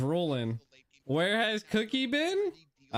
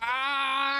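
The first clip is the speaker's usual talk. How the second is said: wincing through a brain freeze; pained "ah" from a brain freeze; 4 semitones higher than usual. Real, not acted. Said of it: "I got a brain freeze".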